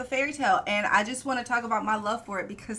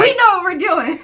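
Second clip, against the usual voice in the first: mock smug; 9 semitones higher, 15 dB louder than usual. Mocking self-righteous couple.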